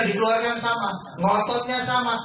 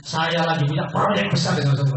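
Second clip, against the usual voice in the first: enthusiastic; 4 semitones lower than usual. Shown as a demonstration. Coach demonstrating how to talk up the project, keen. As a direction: sell the big project with energy. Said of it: "Ngomongnya antusias gitu".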